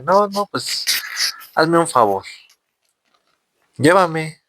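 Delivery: put-on a frail old man begging to be carried; old man begs the young man to carry him, pleading; old man's plea. Old man voiced in story.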